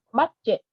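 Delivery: "Budget" with BUD short like Vietnamese "mắt"; short open vowel in "Budget", stressed on BUD; first syllable like "mắt". Shown as a demonstration. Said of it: "mắt, mắt cá".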